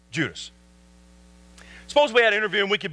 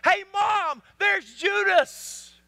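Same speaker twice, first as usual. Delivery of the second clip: a hint of a kid calling Mom, higher; lightly voiced child; 7 semitones higher, much slower than usual. Child pointing Judas out to Mom, lightly voiced. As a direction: pitch it up and stretch the name out. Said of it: "but they also said".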